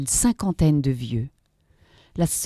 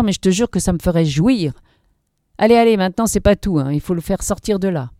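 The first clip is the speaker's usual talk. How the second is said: higher, loud youthful gang voices; higher mocking thug voices bickering; young thugs arguing; 5 semitones higher, 4 dB louder than usual. A narrator's reading. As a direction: voice the quarrelling hoodlums.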